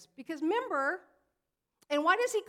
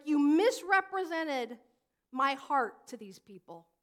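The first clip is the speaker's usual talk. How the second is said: slow, louder, accusing; irate Jesus; 6 dB louder, slower than usual. Pretend. Preacher voicing Jesus rebuking the Pharisees, mildly irate and slow. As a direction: lean on each word with a hint of anger. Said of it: "Jesus is so irate".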